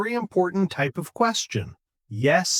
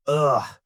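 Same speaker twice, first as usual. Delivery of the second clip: weary groan. Acted. Bad-day reaction after flat demo.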